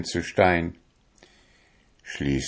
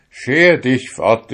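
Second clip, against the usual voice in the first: higher, louder, slow shout; 6 semitones higher, 6 dB louder, slower than usual. A narrator's reading. Young fisherman sends his soul away, shouting. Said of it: "schrie der junge Fischer".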